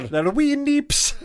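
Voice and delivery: put-on very slow, high Scottish accent. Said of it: "No, it went Scottish".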